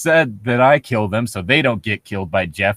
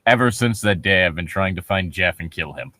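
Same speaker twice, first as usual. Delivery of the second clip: mock ominous; 5 semitones lower than usual. Rereading the villain line to mock it, mock ominous. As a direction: growl it like a grim avenger.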